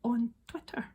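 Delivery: whispered inner outrage; inner thought. Retold or imitated. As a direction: hiss the thought in shock. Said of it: "I thought".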